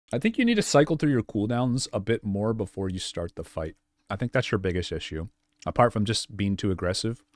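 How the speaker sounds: talking while chewing; mouth full. Real, not acted. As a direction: speak around a bite of food. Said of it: "Sorry, I'm still chewing".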